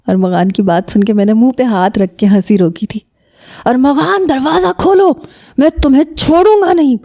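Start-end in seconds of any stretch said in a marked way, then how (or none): 3.7-7.0 furious, much higher, straining shout; enraged roar. A narrator's reading. Shariq bangs on cousin's door, furious high shout. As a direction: roar at the locked door in fury. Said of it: "Shariq بپھر کے بولا".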